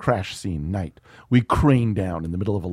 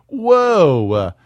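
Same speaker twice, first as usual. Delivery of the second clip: high loud horrified whoa; shocked whoa; 9 semitones higher, 10 dB louder, much slower than usual. Acted. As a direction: gasp it out, half laughing. Voicing crowd horror.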